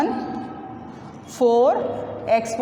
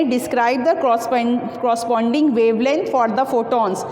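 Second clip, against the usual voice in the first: reading the problem out slowly, word by word; slow read-aloud; much slower than usual. Shown as a demonstration. Teacher slowly reads the book problem aloud to students, dictating. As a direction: dictate the textbook question to the class. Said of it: "part B में कहते हैं".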